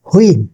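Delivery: হুইল as "hu-il"; local mispronunciation. Shown as a demonstration. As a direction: put an h at the front of হুইল. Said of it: "সবগুলোর উচ্চারণ ভুল". (হুইল-এ ভুল হ ধ্বনি)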